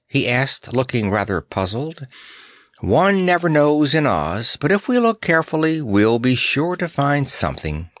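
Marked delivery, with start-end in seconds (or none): 2.8-7.9 high, lilting, easygoing reassurance; light and carefree lion; easy, untroubled. Acted. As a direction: answer breezily, pitch lifted. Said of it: "answered the lion easily".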